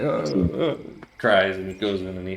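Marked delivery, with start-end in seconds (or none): 0.0-0.8 mock sob. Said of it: "And I was like".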